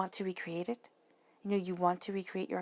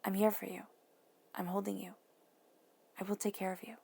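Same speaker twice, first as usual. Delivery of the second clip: soft, gentle words to your small self; a quiet lullaby of comfort; tender self-talk; 4 dB quieter than usual. Pretend. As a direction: murmur it like holding a child. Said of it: "and say".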